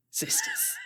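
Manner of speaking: high, breaking hammed-up sob; fake-emotional sisters; mock tearful cry. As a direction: squeak it out, pretending to weep. Character moved to tears.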